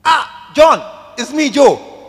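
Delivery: high, loud joyful hello; excited phone greeting. Acted. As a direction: burst out happy at the connection. Acted call, finally connects.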